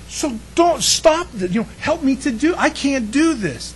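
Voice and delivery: lightly voiced David begging for help; David's plea. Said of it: "so he says".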